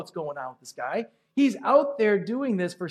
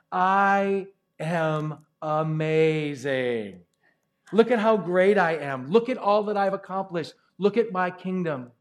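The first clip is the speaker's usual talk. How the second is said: boastful king; slower than usual. Acted. King boasting on his rooftop.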